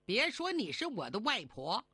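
bitter vow, pitch leaping up in bursts; angry ultimatum. Acted. Fairy disowns her grandmother, bitter angry ultimatum. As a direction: cut her off for good, indignantly. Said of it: "咬牙切齿， 放出狠话".

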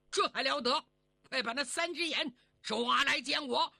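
loud, slamming-the-table command; furious order. Acted. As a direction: bark the arrest order in a rage. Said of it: "果然火气比李成龙还大". (拍案大怒下令抓人)

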